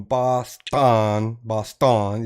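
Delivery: Boston drawn out with weight on TON; stress on last syllable. Shown as a demonstration. Friend demonstrates northern way of saying Boston, stress on last syllable. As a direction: lean hard on the second syllable of Boston. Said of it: "you pronounce the last syllable".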